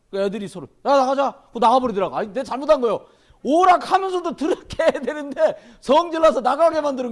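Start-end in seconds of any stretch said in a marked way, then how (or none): 0.9-1.5 put-on higher, louder defiant kid. Teens telling each other to leave, defiant call. 3.5-7.1 laughing. Real, not acted. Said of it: "laughs at own mistake".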